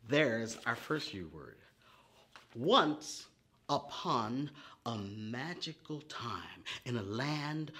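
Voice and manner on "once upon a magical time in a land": animated storybook reading; reading to children. Acted. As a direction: read it like a bedtime tale for little ones. Reads her poem to children.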